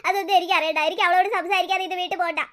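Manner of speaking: stubborn tearful wail; lovesick, childish crying; bawling. Acted. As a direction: cry out, then refuse through sobs. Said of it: "ഈ കരച്ചിലൊന്ന് നിർത്ത്".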